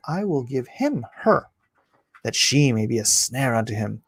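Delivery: emphatic King James Bible reading; declaimed Old Testament narrative; scripture reading. A narrator's reading. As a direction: read the verse out with measured, weighty stresses. Reads scripture aloud.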